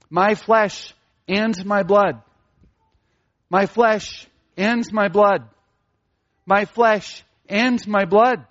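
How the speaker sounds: slow, "flesh", pause, then stressed "and my blood"; emphatic repetition. Shown as a demonstration. Preacher shows repetition in scripture, slow stress on "flesh" and "blood". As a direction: repeat it deliberately, weighting "flesh" and "blood" equally. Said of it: "There is this emphasis, there's repetition".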